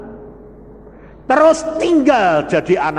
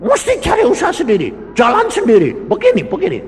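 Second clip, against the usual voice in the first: higher, fast, louder busy tone; mocking quote; 9 semitones higher, 4 dB louder, much faster than usual. Preacher mocking congregants who scheme on their own, fast and high. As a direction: mimic someone fussing to find their own way. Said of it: "Jangan lalu saudara bilang".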